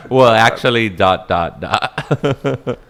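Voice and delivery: mock pedant trailing off on "dot, dot, dot"; smug unfinished correction. Shown as a demonstration. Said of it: "Not even finished".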